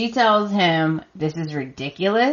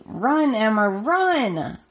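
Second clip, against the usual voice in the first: retold yelling; 4 semitones higher, slower than usual. Viewer yelling at the TV for Emma, retold high-pitched mock yell. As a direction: urge her on with a high, drawn-out last word. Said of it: "I was yelling at my T V".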